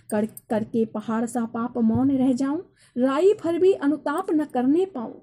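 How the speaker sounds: declaimed couplet, lifting in the second line; poem recitation. Acted. Teacher reading Kaikeyi's confession to students, declaimed. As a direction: recite the verse, raising pitch on its second half.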